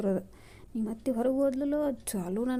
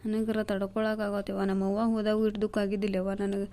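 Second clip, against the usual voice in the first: tearful. Acted. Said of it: "ಯಾಕೆ ಇಷ್ಟ ಯಾಕೆ ಅಳತಿ ನೀನು?".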